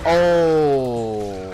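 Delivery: long, loud falling "oh"; dismayed "oh". Real, not acted. Player caught out by a game monster, dismayed cry. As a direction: cry out as the fight goes wrong.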